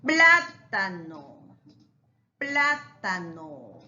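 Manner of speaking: plátano slow, PLÁ hit and set apart; stress on PLÁ. Shown as a demonstration. Teacher shows the accented syllable, plátano slowly split on PLÁ. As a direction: hit PLÁ, then stretch out tano. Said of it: "está justamente en la antepenúltima".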